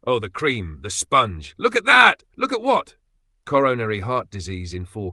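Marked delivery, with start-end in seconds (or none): 0.0-3.0 high squealing gush over cake; excited food narration. Retold or imitated. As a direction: gasp over a cream cake. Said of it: "narrating it like it's the moon landing".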